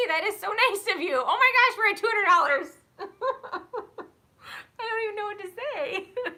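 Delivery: high, loud, laughing through near tears; real joy spilling into a laugh-cry; overwhelmed and teary. Real, not acted. Streamer overwhelmed by viewers' donations, laughing through tears. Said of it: "you guys are making me tear up here".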